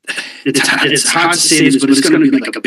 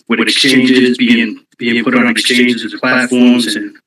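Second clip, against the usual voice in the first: out of breath. Real, not acted. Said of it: "sorry, I'm out of breath".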